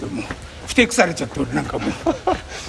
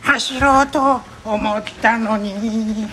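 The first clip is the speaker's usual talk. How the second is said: announcer voice; 7 semitones higher, much slower than usual. Pretend. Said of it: "変な感じの変なものが流れてた".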